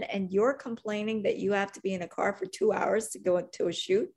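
retold outburst. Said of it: "and I snapped".

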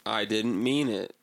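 slow, halting reading of a forced apology; lightly voiced Trump reading a scripted sorry; mock forced apology. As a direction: read it off the paper like a scolded kid.

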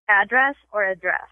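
"Address" first AD-ress, then uh-DRESS; two pronunciations. Shown as a demonstration. Host quizzing a guest, "Address" said both ways. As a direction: move the stress in "address" from front to back. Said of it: "I have a pronunciation test".

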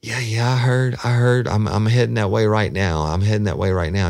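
a hint of a keyed-up man brushing her off; amped-up man. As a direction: play him wired and evasive. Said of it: "really amped up".

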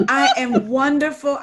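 real laughter breaking into the words; breathless laughing. Real, not acted. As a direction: try to answer through a laughing fit. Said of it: "I need an asthma pump".

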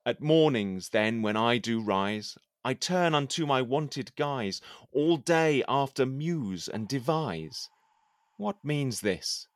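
measured, declaiming poem reading; poem recitation. Acted. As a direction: recite it like a courtly poet. Recites his poem aloud.

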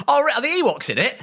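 high squeaky clueless fan, laughing; laughing mock question. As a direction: ask it giggling, playing dumb.

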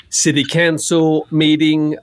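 "council" said like "cancel"; odd vowel in council. Acted. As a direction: slowly say "council" as "can-sul". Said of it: "City Council?".

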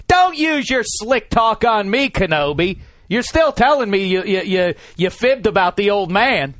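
a mock-outraged Jedi pupil scolding his old mentor; Luke Skywalker. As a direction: whine it like a betrayed apprentice. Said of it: "as Luke told us in Empire".

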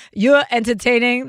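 playful put-on Brooklyn accent; lightly hammed-up Brooklyn accent. Shown as a demonstration. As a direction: say it like a Brooklynite, dropping the r's. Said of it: "That's my Brooklyn accent".

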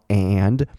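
"and" with full open "a" and "d"; long, clear "and"; dictionary full form. Shown as a demonstration. Teacher reads the dictionary sound, full "and". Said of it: "它的音标一定会是这样标的。".

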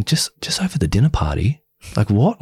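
incredulous questioning, rising at the end; retold disbelief. Reacting inwardly to partner's accusations, retold disbelief. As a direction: act out mild indignant bafflement.

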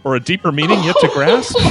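grand Shakespearean stage voice, laughing through; hammy stage actor. Shown as a demonstration. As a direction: declaim it like an old stage actor. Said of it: "Can you give us an example of some of the prose?".

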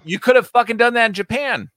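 loud laughing rant; laughing loudly. Real, not acted. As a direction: shout it through a laugh. Laughing outburst at the movie.

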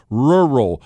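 Rural drawn out slowly, falling at the end; extra slow. Shown as a demonstration. Showing Chris the word he struggles with, slow. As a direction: stretch out Rural so it doesn't slur. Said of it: "I have to say it extra slow".

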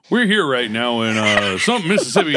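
lightly voiced field reporter; news voice. Acting a reporter on location, news voice. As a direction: put on a measured on-air delivery. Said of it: "got rid of news voice".

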